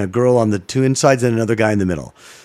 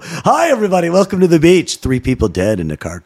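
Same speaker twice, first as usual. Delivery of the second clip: mock news anchor; 4 semitones higher than usual. Mock anchor intro on the beach.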